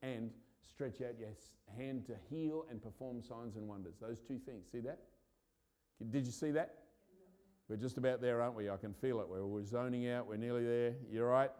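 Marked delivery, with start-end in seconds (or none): 6.1-11.5 louder, pushing the congregation on; rousing preacher shout. Real, not acted. Preacher stirring the church toward breakthrough, loud and rousing. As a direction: call it out as the room lifts.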